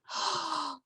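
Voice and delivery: a soft, sharp intake of breath; shocked gasp. Acted. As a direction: gasp as if the baby is gone. Teller gasps as baby is taken.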